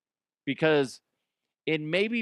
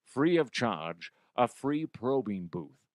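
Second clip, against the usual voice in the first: Connery voice. Pretend. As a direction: play Connery butting in to give his two cents. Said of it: "Connery, seriously".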